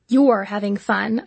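slow correction leaning on "You're"; "You're" set apart slowly as a pointed correction; correcting, stress on YOU'RE. A narrator's reading. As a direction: correct her, stretching the word "You're". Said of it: "I corrected her".

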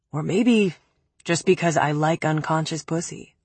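a hint of a low, cold man. Cruel taunt.

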